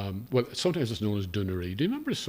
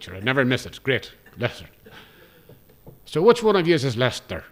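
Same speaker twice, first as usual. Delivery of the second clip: higher, louder Cavan voice, earnest question; puzzled Cavan driver, pitched up; Cavan accent; 3 semitones higher, 6 dB louder than usual. Retold or imitated. Driver asking which of the crew is Lester, in a Cavan accent. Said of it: "I'm gonna attempt a Cavan accent".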